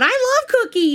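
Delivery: put-on high kid's voice, yelled loud; mock kid yell. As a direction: shout it like an excited little boy. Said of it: "Liam just yells out".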